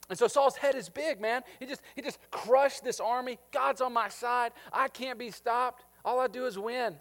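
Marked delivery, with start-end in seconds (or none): 3.5-7.0 cocky Saul. Retold or imitated. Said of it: "that's his mindset".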